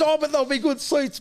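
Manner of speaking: high, loud, sing-song imitation of the boss; lightly hammed-up mimicry of the boss; mock boss voice. Boss promising good seats, in high, loud, sing-song mimicry.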